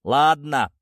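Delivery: ordinary delivery, nothing marked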